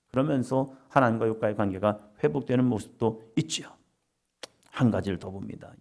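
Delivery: ordinary talk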